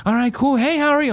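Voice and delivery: mock cheerful staff greeting; chirpy greeter. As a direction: mimic an overfriendly Apple greeter. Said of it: "one woman's like".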